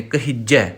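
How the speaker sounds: ਕਹਿਜੈ said the common wrong way, h left loose; ਕਹਿਜੈ with the h sounded loose and open; wrong pronunciation. Shown as a demonstration. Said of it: "ਹਾਹੇ ਨੂੰ ਬਿਹਾਰੀ ਲਾ ਕੇ ਉਚਾਰਨ ਕਰ ਜਾਂਦੇ ਨੇ".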